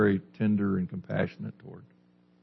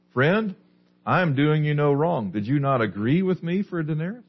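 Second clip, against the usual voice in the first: higher-pitched, questioning rebuttal; reasoning landowner; 6 semitones higher than usual. Acted. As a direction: answer the complaint in a raised pitch, as the landowner. Landowner answers the grumbling worker.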